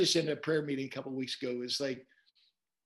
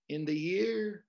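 "year" raised in pitch and held; stress on YEAR; 4 semitones higher, slower than usual. Shown as a demonstration. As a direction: lean on "year", lifting it before a pause. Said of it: "I would emphasize different words".

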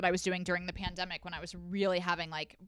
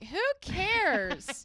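mock dismissive; 9 semitones higher than usual. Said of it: "and you're like".

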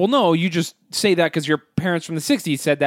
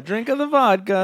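mock Russian accent; 5 semitones higher than usual. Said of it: "give me Russian".

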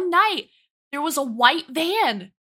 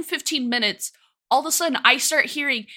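ordinary talk, nothing marked

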